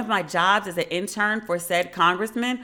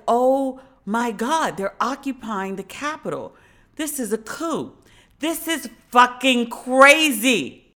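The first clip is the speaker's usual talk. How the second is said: slow, awed oh my God; slow stunned disbelief; slower than usual. Retold or imitated. Comic recalling his shock watching the Capitol, slow and stunned. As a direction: draw it out in shock. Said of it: "And I was like".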